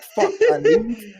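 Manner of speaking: high panicked squeak; mock panic. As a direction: sound paranoid and high. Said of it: "I'm getting paranoid and anxiety".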